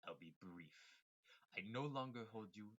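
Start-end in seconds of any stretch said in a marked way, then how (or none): 1.6-2.7 evil villain voice. Acted. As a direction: sound like a cold schemer. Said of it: "I'm going into my evil villain voice".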